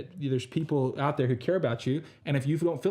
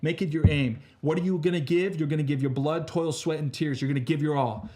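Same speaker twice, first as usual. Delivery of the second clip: rousing speech; 2 semitones higher than usual. Acted. Motivational pep talk.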